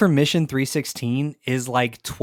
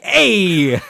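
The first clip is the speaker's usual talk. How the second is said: tough Jersey "Hey!"; Jersey accent; 6 semitones higher, 7 dB louder than usual. Pretend. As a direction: hunch up and bark a Jersey hey. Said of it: "my shoulders just go up".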